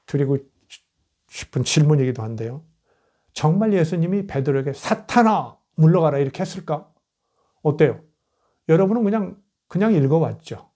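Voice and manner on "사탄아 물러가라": mild acted rebuke, pitched up at first; imitating a stern dismissal; retold rebuke. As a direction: call out the rebuke, lightly acted. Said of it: "베드로를 꾸짖어 이르시되".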